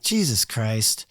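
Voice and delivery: slow, low, soft groan of disbelief; exasperated mutter. Retold or imitated. Stood up by the bassist, muttering it slow and low. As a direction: mutter it, fed up and let down.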